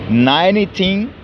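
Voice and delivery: slow, careful "Nineteen eighty-six"; slow model pronunciation. Shown as a demonstration. Teacher repeating the date slowly for students. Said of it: "Mil novecentos e oitenta e seis".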